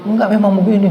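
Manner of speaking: high and loud, brushing off the complaint; firm loud reply. Retold or imitated. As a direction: insist it is done this way. Masseur answers the pleading patient. (jawaban keras dan tegas)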